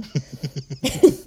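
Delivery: a loud burst of laughter, rising. Real, not acted. Laughing about the polite clerk, loud burst of laughter. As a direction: crack up at the memory.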